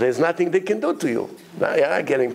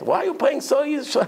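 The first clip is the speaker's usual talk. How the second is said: upset complaint; 11 semitones higher than usual. Retold or imitated. Acted complaint of upset wives.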